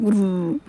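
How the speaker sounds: low rumbling गुर्र growl; mock donkey growl. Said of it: "ऐसे वो करने लगता है". (गधे की तरह हल्की नकली गुर्राहट)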